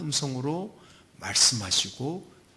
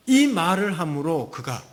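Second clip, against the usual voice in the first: usual speaking voice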